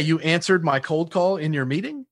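"meeting" lifted at the end like a question; upward inflection. Shown as a demonstration. Sales caller questioning a prospect's excuse, rising on "meeting". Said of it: "That upward inflection is like".

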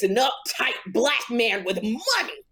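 slow, lightly put-on uptight rich man; a hint of a stiff, moneyed man; David Arnold impression. Co-host shows how the comedian talked, uptight impression. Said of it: "David Arnold talked like this".

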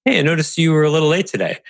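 light quick notice. Shown as a demonstration. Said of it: "You could do another notice".

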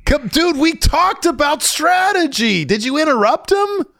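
can't believe what he's hearing; shocked disbelief. Real, not acted. Host reacting to the train-wreck interview, shocked.

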